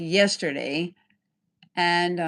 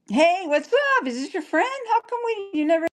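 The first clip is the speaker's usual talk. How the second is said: mock confrontation; 13 semitones higher than usual. Imagined confronting her with friend.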